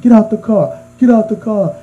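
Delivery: high-pitched imitation of a road-rage demand; mock angry order. Retold driver ordering the other out.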